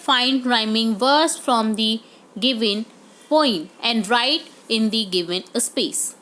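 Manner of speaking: very slow, deliberate question reading; slow instruction read. Shown as a demonstration. Teacher reading the assessment question to pupils. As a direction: read the task out slowly.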